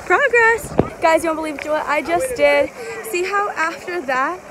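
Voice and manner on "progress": high-pitched excited whoop; real triumphant cheer. Real, not acted. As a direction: cheer your own progress, pitched high. Celebrating riding without falling.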